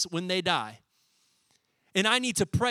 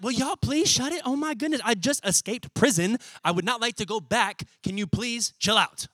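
mildly exasperated plea for quiet; acted, urgent begging to settle down; exasperated hushing; 3 semitones higher than usual. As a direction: shush an overexcited crowd. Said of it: "He's telling everybody to be quiet".

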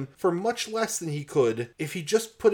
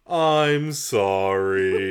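grudging apology; 6 semitones lower, 5 dB louder, much slower than usual. Acted. Detective apologises, mock-read.

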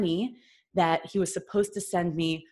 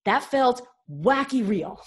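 stunned disbelief; 5 semitones higher, 5 dB louder, slower than usual. Retold or imitated. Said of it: "and I was like".

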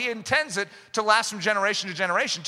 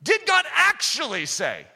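serpent's question; 5 semitones higher than usual. Retold or imitated. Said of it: "E S V".

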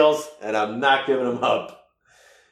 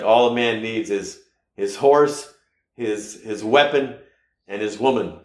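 quoting a saying. Retold or imitated. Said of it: "it's something like".

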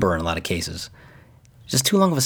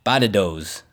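Boston accent; slower than usual. Shown as a demonstration. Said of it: "say these in a Boston accent".

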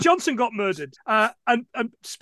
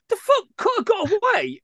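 a raised, indignant double take; incredulous outrage; 11 semitones higher than usual. Retold or imitated. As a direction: sputter it out like you can't believe the plot. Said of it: "And I was like".

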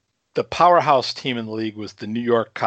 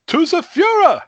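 high shouted toast; 6 dB louder than usual. Retold or imitated. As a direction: raise a glass and bellow.

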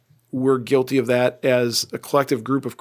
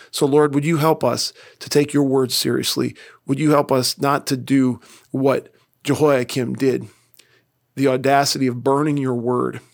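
closing prayer. Acted. Pastor closing the sermon by praying for the congregation, earnest prayer. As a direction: pray it sincerely, lifting each request.

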